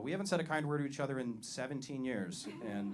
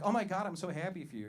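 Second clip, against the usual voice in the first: mock excited friend; 4 semitones higher than usual. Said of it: "that thing white women do when you're really excited".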